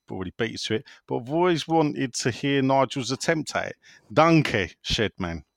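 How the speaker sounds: put-on a half-hearted German accent that keeps slipping. Finishing the listener's question in a weak German accent. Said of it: "you've just heard it".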